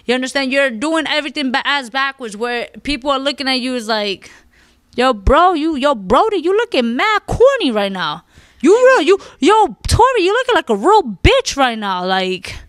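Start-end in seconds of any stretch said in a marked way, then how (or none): 5.0-12.0 loud jeering bro voice, higher on yo Tory; mocking call-out. People online mocking Tory, loud jeering taunt. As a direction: heckle him like a crowd clowning him.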